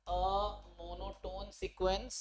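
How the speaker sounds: very slow word-by-word dictation. Real, not acted. Teacher writing out the theorem statement, slow dictation. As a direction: draw out each word at writing speed. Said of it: "word to word लिख के बता रहा हूँ".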